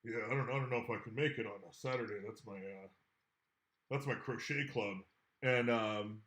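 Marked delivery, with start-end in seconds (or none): 0.0-5.0 lightly voiced goblin, quick and a touch lower; a hint of a shy goblin making excuses; Glork's voice. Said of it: "You overhear Glork going like".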